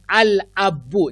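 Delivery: al pronounced with a clear L, slow. Shown as a demonstration. Teacher demonstrating the moon letter, lam sounded clearly. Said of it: "लाम को pronounce किया".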